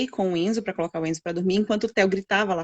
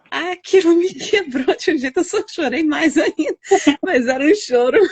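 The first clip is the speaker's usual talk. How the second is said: higher and louder, voice breaking into tears and laughter; crying while laughing; 8 semitones higher, 7 dB louder than usual. Real, not acted. Mother telling host how her son comforted her, crying and laughing. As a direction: let the tears spill as you speak.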